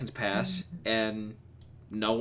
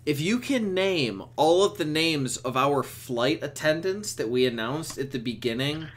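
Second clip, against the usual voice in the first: mock flight attendant; 6 dB louder than usual. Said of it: "And so they're like".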